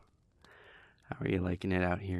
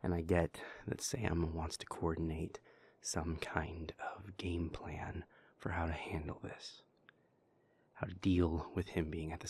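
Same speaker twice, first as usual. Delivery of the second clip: soft unvoiced whisper, confiding; 3 dB quieter than usual. Speaker confides about Porter in a whisper. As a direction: breathe the words out, close and private.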